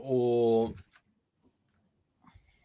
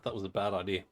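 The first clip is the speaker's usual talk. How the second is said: talking around ice in the mouth; 3 semitones lower than usual. Real, not acted. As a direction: speak with an ice cube in your cheek. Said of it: "I put ice in my mouth".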